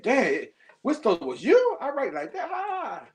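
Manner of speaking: high, laughing disbelief; amused brag at his own writing; laughing amazement. Real, not acted. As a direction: chuckle at your own surprise. Amazed at being mistaken for pro.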